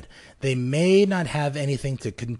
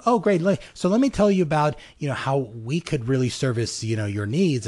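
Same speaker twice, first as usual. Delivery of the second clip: pushy salesman pitch. Pretend. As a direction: play the brand that only talks about itself. Brand pitching at a party.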